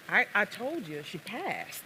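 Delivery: Southern man, softening at the end; acted Southern accent, subdued. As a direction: answer in a Southern accent, falling away softly. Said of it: "I'm gonna attempt what is a Southern accent".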